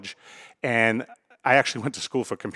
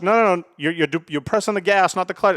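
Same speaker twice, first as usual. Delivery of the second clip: higher, urgent mock-dad correction; exasperated correction; 6 semitones higher than usual. Dad teaching his daughter stick shift, exasperated. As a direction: cut in as an exasperated driving instructor.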